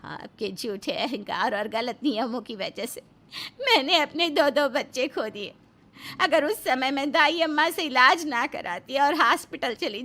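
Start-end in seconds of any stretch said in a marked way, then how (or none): 0.0-8.2 crying through the words; tearful. Acted. Wife blaming husband for lost babies, tearful crying. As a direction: voice breaking with grief.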